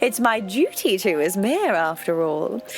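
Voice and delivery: a hint of a self-important mayor, sweetly welcoming; lightly voiced proud mayor. Mayor greeting the new postmaster, lightly pompous. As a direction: play the smug small-town mayor, lightly.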